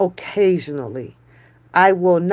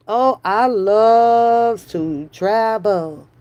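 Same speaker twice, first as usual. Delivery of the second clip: slow, stretched oh, I love to travel; drawn-out dreamy version; much slower than usual. Pretend. Teasing her friend about loving travel, slow and drawn out. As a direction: savour every word slowly. Joking she loves travel.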